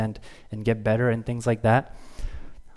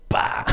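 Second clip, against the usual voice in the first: effort grunt. Retold or imitated. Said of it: "I go".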